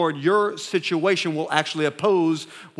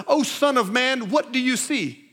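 God's solemn question; 6 semitones higher than usual. Acted. God questioning the prophet Ezekiel in the vision, solemn and raised. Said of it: "He says".

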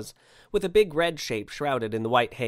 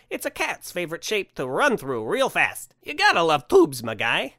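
high, loud proclamation easing into fond explanation; enthusiastic Santa; 4 semitones higher, 4 dB louder than usual. Acted. Santa extols his favorite shape to sceptic, enthusiastic. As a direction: proclaim it grandly, stretching the first words.

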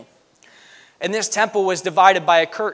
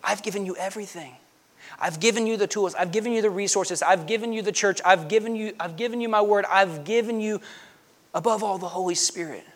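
heaven answering back; 3 semitones higher, 4 dB quieter than usual. Acted. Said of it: "heaven is staring right back down at them saying".

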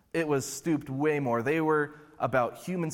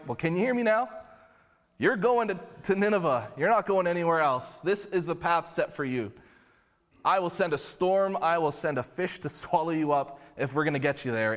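higher-pitched, insistent mock-divine telling-off; lightly voiced exasperated God; 3 semitones higher than usual. God sending Jonah to Nineveh, lightly exasperated. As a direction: lay down the law as God, half in jest.

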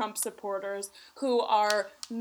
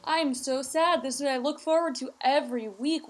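high, overwrought fan wail; mock-distraught fan; 4 semitones higher, 3 dB louder than usual. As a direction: play a whiny heartbroken fan.

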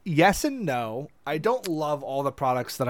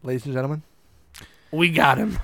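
meme quote; faster than usual. Retold or imitated. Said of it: "that meme".

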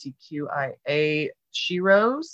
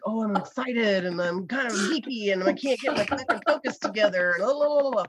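acted pre-show jitters, pitched up; nervous jitter; 4 semitones higher than usual. Performer recalling nerves before a show, jittery and excited. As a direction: babble like a jittery performer losing focus. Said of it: "that nervous jitter".

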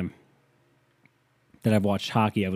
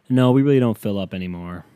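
depressing tone; 5 dB louder than usual. Retold or imitated. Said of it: "in the most depressing-ass tone".

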